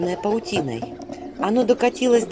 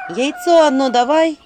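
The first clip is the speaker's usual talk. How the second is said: slow loud begging; pleading demand; 5 semitones higher, 7 dB louder, slower than usual. Acted. Heroine begging the spirit for one egg. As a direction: beg hard for one egg. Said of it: "взмолилась я".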